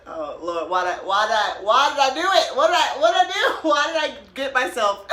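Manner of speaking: hammed-up panic at her own question; mock panic. Woman panicking mid-flight after asking a question.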